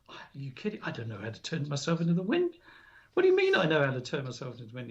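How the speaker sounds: quick, disbelieving protest with rising questions; mock disbelief, tumbling out fast; incredulous. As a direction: imitate a baffled boy's rapid objection. Retold boy's disbelief at impossible demand.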